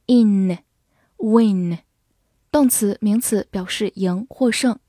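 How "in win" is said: "in，win" ending on a front n; "in，win" with a clear n, no g; front nasal ending. Shown as a demonstration. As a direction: close "in，win" with tongue tip behind the teeth. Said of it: "发的是前鼻音".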